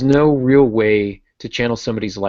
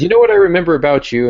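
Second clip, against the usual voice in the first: retold quote; 9 semitones higher, 7 dB louder, faster than usual. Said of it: "he says".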